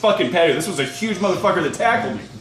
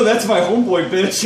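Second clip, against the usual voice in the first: tough-guy retort; 3 semitones higher than usual. Retold or imitated. Narrator to the brawler, a cocky half-shouted comeback. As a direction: snap it back at the big guy to defend your buddy. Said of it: "I just go".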